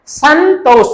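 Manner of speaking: "संतोष" sounded out with a held nasal n; pronunciation demo. Shown as a demonstration. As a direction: dwell on the n in "संतोष" for students. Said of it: "जैसे संतोष का उच्चारण करेंगे". ("संतोष" में न को नाक से खींचकर)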